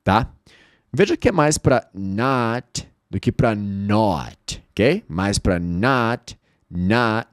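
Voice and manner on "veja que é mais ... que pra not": not said first with an open ah, then with a round o; slow, set nat against nót; contrast of vowels. Shown as a demonstration. Teacher contrasting two vowels, slow and careful. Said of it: "Começando aqui pelo not".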